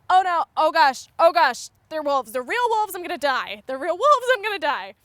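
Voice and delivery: panicked. Retold or imitated. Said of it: "my brain was telling me".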